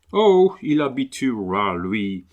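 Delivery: puzzled Englishman's broken French; English accent. Acted. Englishman puzzled that the dog ignores him, English accent. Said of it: "l'accent anglais".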